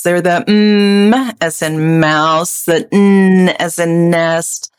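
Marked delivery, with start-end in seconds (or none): 0.5-1.4 "mm" as in mouse, drawn out alone; nasal sound demo. Shown as a demonstration. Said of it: "what are our three nasal sounds". 2.9-3.5 "n" as in nest, drawn out alone; nasal sound demo. Shown as a demonstration. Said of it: "what are our three nasal sounds".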